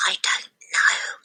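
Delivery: whisper, barely there. A narrator's reading. Matilda whispers back to her friend. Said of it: "Matilda whispered back".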